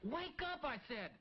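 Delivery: bursting with big news; excited. Acted. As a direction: wake him up, thrilled. Wakes partner excitedly.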